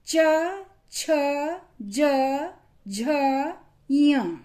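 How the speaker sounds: च छ ज झ said one by one, tongue on the palate; palatal consonants demo. Shown as a demonstration. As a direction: sound out च, छ, ज, झ, य slowly and separately. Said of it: "इनको जब हमने बोला".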